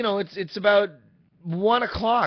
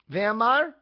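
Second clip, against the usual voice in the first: put-on her Hispanic-accented voice; 7 semitones higher than usual. Imitating the phone woman naming the driver, Hispanic accent. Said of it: "say it in her voice".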